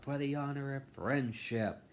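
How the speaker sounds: high, sugary mock cheer; mock a sweet cartoon heroine; bright magical girl. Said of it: "I hope they do not go out".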